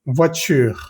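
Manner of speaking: "Voiture" ending on the R; French "Voiture", last e left unheard; silent final e. Shown as a demonstration. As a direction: say "Voiture" with no e after the R. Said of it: "no se escucha para nada".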